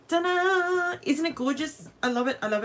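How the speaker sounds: high, bright ta-da reveal; excited reveal. Real, not acted. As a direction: present it with delight. Reveals finished cut.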